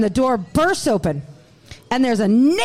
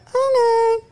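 high squeaky okay; 10 semitones higher than usual. Retold or imitated. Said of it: "I'd be like".

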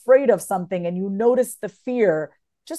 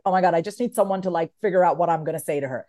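frantic; 4 semitones lower, faster than usual. Retold or imitated. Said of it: "her energy is just like".

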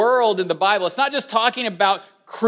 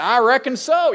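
put-on Southern accent; 4 semitones higher than usual. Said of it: "if you're from the South".

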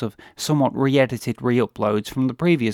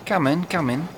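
lightly voiced suave villain; a hint of a genteel British horror actor; Peter Cushing voice; 4 semitones higher than usual. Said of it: "Peter Cushing as Major Benedek".

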